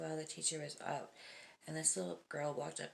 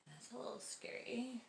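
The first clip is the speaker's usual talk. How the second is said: whispered aside; 7 semitones higher, 6 dB quieter than usual. Real, not acted. Reacting to creepy story.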